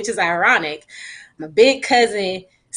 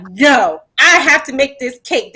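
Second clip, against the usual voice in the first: raising the voice in a mock argument, a bit higher and louder; retold insistent protest; 4 semitones higher, 4 dB louder than usual. To mom at 2 a.m., refusing to stop baking: a mild mock insistent protest. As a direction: insist you will finish the cake, half-shouting. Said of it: "And I'm like".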